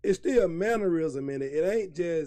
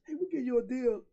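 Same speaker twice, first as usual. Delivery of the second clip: street sellers calling; 9 semitones higher than usual. Retold or imitated. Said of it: "they can tell you ain't from there".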